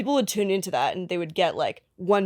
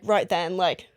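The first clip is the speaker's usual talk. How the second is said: lightly put-on British accent; casual imitation of a British accent; slower than usual. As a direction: toss it off in mock British. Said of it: "a lot of British people".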